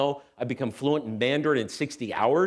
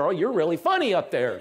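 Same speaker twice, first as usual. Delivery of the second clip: laughing; 4 semitones higher than usual. Real, not acted. Teasing God, laughing.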